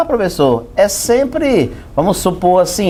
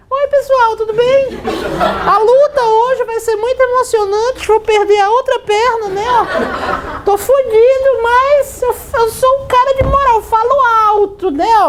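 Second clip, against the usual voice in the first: very high, squeaky fighter voice; mock a tough guy with a tiny falsetto; comic high-pitched impression; Anderson Silva. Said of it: "O bicho fala alto".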